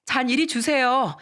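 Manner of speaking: acted urgent protest; pleading shout. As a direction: cry out to restrain someone, drawing out the end. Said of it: "시모를 말리면서 소리쳤습니다".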